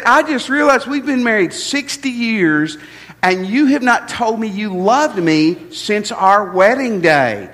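voicing the wife's hurt with a light tearful edge; wife complaining. Preacher voices the wife at their anniversary, lightly tearful. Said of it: "and she said".

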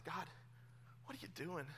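desperate prayer. Retold or imitated. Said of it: "crying out to God".

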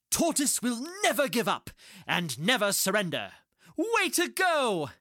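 high rousing cheer; rally the crowd; excited cheering. Acted. Animals cheer the tortoise.

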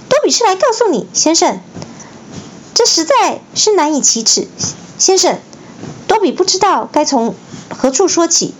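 high sincere elf voice; a little elf eager to explain; earnest house-elf. A narrator's reading. Dobby earnestly telling Harry, high voice.

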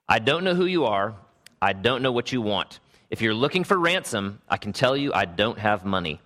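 deliberate, measured mock movie threat; movie quote recital. Pastor quoting a father's ransom call for a guessing game, measured threat. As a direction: recite it like a film hero's warning, in your own accent. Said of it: "I can't say it in the correct accent".

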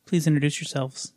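composed host, long deliberate pauses; professional host intro. Real, not acted. Host introducing his co-hosts, stiffly professional and measured. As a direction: introduce yourself formally, pausing between phrases. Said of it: "trying to take a professional approach".

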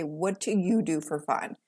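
low, pointed turning of the question; a quiet pointed comeback. Retold or imitated. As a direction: throw the question back at them, cool.

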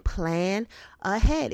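"Plan ahead" drawn out very slowly; slow it right down so it sinks in; slow emphatic advice. Shown as a demonstration. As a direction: stretch out "Plan ahead" word by word. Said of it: "Do the same thing".

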